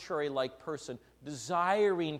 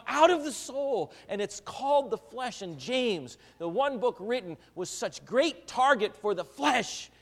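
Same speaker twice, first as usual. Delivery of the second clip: full-force preaching; 10 semitones higher, 7 dB louder than usual. Acted. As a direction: hammer it home to the congregation.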